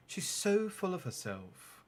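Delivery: a lightly hushed gossip; dropped voice. Acted. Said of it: "dropping her voice".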